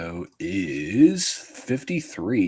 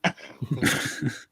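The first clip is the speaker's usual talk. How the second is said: bad Joker impression; 6 semitones higher, 3 dB quieter than usual. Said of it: "your imitation of Joker".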